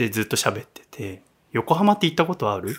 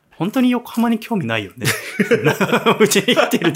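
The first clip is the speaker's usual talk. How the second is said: higher voice, laughing as you tease; 9 semitones higher, 5 dB louder than usual. Real, not acted. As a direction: tease through real laughter. Teasing co-host about Yokohama.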